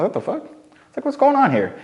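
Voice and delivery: high, baffled squeaky disbelief; a bewildered squeal at being ignored; confused disbelief. Retold or imitated. Ignored by the girl at the frat party, high baffled squeal. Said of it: "I was like".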